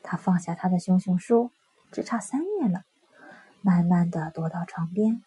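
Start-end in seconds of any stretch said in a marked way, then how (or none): none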